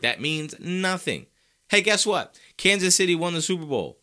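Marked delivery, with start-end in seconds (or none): 1.7-4.0 loud high mock announcement; loud sarcastic hey. Real, not acted. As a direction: shout it like big news.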